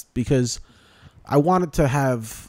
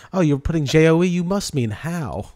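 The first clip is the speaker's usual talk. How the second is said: mock autocorrect; 6 semitones higher, 3 dB louder than usual. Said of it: "autocorrect imitated".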